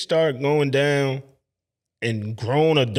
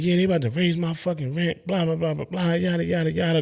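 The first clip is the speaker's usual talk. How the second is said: retold rant; 4 semitones higher than usual. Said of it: "she's going off".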